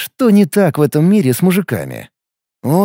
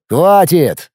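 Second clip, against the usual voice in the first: firm interruption; 3 semitones higher, 3 dB louder than usual. Acted. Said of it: "перебил я Фила".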